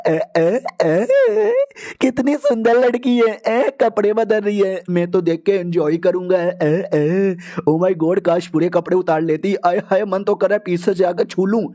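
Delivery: a lightly voiced leering pervert; half-hearted sleazy voice, drawn-out "ए"; leering creep. Creepy peeping man leering.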